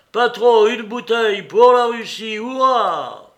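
high, loud call for drink; exuberant shout. A narrator's reading. Mitya orders a bottle for Russia, shouting. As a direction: shout the order and end cheering. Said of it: "cria Mitya".

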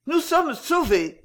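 high, slow burst of relief; cry of relief. A narrator's reading. Wife cries out to her husband in sudden relief. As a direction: she cries out, hoping again. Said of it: "s'écria-t-elle".

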